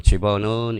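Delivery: "집어는" read straight through with the last syllable drawn out; wrong reading demo. Shown as a demonstration. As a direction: read "집어는" as one run, stretching 는. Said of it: "이렇게 읽었으면 벌써 끝난 거야".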